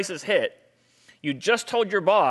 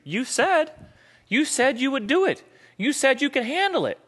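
exasperated wife; 9 semitones higher than usual. Acted. Wife's complaint in argument.

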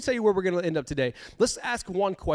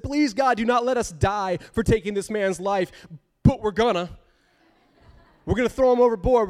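pleading sailors; 3 semitones higher, 3 dB louder than usual. Retold or imitated. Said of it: "they cried out to the Lord".

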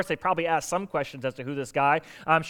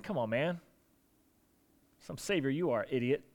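much softer, lower scornful grumble; muttered insult; 4 semitones lower, 9 dB quieter than usual. Retold or imitated. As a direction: mutter it dismissively. Paraphrase of the criminal's insult.

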